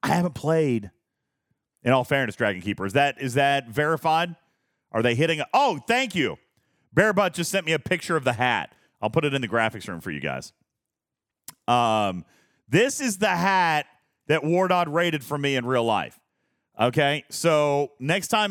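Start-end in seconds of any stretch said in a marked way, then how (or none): none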